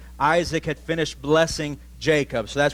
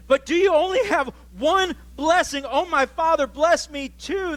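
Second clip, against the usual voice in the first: higher, mildly pleading son; 13 semitones higher than usual. Acted. Esau pleading with his father for a blessing, mildly. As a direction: beg for one more blessing. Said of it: "Esau pleaded".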